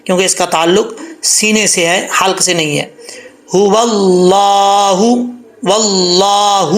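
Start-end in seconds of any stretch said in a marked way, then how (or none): 3.6-6.7 هو اللہ chanted slowly, ه from the chest; slow recitation of هو اللہ; tajweed recitation. Shown as a demonstration. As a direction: Quranic chant. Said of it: "اب اس کو هو اللہ نہیں پڑھنا".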